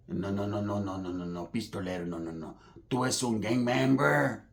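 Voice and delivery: low, hushed rambling imitation; crazy paisa. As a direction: repeat it low and quiet like someone spun out. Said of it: "he sounds all crazy".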